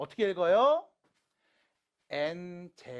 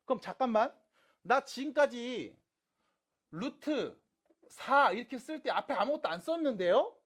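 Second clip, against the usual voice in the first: lightly voiced puzzled student, a bit higher; student's objection; 5 semitones higher, 4 dB louder than usual. Teacher voicing a student's doubt about the root notation, mildly protesting. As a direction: raise a mild protest as a student would.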